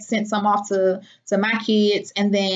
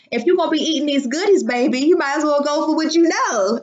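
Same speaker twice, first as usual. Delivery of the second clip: fast, higher hype to herself; self hype; 5 semitones higher than usual. Retold or imitated. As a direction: talk yourself into the treats, fast and bright. Hyping herself up over donuts.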